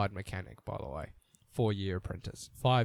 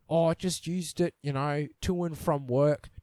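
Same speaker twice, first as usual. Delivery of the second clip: lightly voiced seller, casual and innocent; mock seller, innocent. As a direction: read the ad as a breezy seller. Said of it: "Or it's like".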